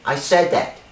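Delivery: high, loud indignant yelling; furious he was copied; raging gamer. Acted. Angry accusation again.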